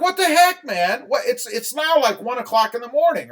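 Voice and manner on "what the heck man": retold disbelief. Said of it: "I'm like".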